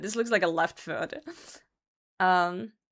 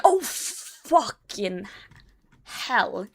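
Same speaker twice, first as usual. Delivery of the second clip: pained groan; much slower than usual. Retold or imitated. Standing on the injured foot.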